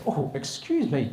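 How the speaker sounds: slow, reproving teacher interjection; teacher correcting pupil. Acted. Acted prim teacher correcting pupil.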